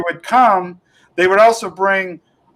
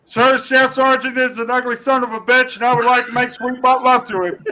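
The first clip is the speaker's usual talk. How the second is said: higher mock recruit formality, laughing at the end; recruit sounding off; 4 semitones higher than usual. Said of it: "I'm like".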